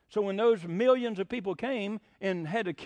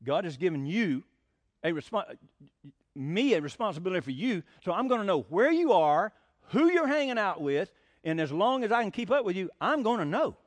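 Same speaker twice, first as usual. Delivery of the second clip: firm but loving dad; 3 semitones lower than usual. Retold or imitated. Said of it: "I said".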